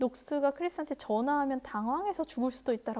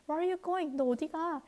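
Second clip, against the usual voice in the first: calling out; 4 semitones higher, slower than usual. Acted. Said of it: "Neil called".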